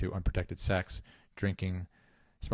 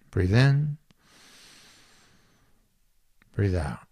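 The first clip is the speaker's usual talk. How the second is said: measured meditation leader, unhurried pauses; spacious guided-meditation delivery. Real, not acted. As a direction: lightly guide listeners through breathing and movement.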